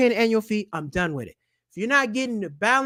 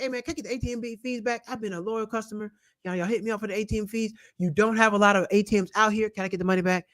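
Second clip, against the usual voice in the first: casual phone request; 4 dB quieter than usual. Retold or imitated. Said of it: "call your bank and say".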